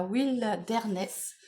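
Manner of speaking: English word in a French accent. Real, not acted. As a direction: say Wilderness slowly with a French accent. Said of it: "Excusez mon accent".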